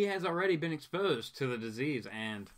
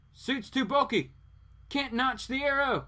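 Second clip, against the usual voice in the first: mild hero voice; 9 semitones higher than usual. Acted. Voicing Green Arrow quote.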